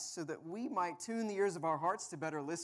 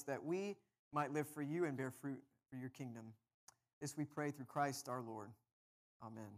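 measured, subdued praying voice; prayer; 3 semitones lower, 4 dB quieter than usual. Real, not acted. Pastor praying before the scripture reading, prayerful. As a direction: lead a congregation quietly in prayer.

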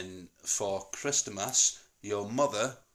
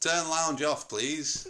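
higher-pitched, measured request to a device; polite command; 5 semitones higher, slower than usual. Real, not acted. Dad asking Google to switch off lounge, polite. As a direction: ask the smart speaker nicely.

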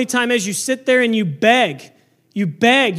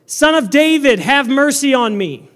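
raised-voice cry over a crowd; crying out all the more; 3 semitones higher, 4 dB louder than usual. Acted. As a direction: call out insistently for mercy. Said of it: "he cried out all the more".

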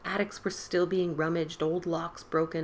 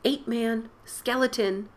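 put-on loud, high boyish cry; gleeful shout; 6 semitones higher, 6 dB louder, slower than usual. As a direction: shout it with glee. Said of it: "hilarious inside his bones".

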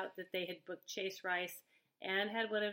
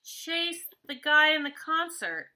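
mock disbelief; 6 semitones higher, 8 dB louder than usual. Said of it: "He's like".

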